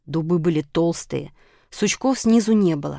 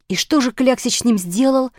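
mildly worried, raised voice; a slightly higher, concerned question; anxious question; 5 semitones higher, 4 dB louder than usual. A narrator's reading. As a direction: ask with a touch of alarm. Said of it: "с тревогой спросила буква".

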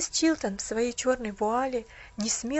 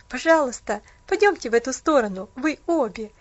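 hurried; 7 dB louder than usual. Acted. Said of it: "торопливо предложил он".

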